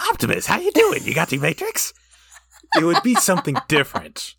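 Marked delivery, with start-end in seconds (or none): 0.0-1.9 high, bright-eyed excited greeting; perky upbeat. Retold or imitated. Imagined lively griffin greeting Optimus, high and excited. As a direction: pop it up high like a cheery griffin. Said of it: "it would be so much better".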